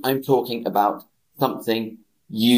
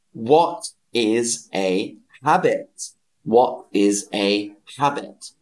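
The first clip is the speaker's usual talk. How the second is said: slow question. Shown as a demonstration. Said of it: "teacher models question".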